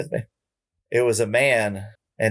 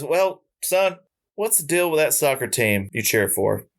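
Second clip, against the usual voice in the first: a singer's voice; 4 semitones higher than usual. Retold or imitated. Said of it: "I apologize for not getting his accent right".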